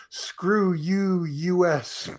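high, loud, drawn-out cry; screaming to the sky. Retold or imitated. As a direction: yell it slowly up at the sky. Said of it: "screaming to the sky".

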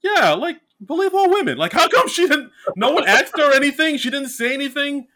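high-pitched indignant rant; incredulous outrage. Real, not acted. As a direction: squeak out your disbelief.

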